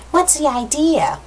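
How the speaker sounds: high, slow put-on girl voice; girl's voice. Girl knocked to the ground challenges the man, high girly voice. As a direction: pitch it up as an indignant girl. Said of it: "That was the girl".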